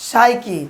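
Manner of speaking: সাইকি starting with an S sound, P silent; silent-P pronunciation. Shown as a demonstration. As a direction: say সাইকি as "SAI-ki", no P. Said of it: "উচ্চারণ আমরা করবো কি".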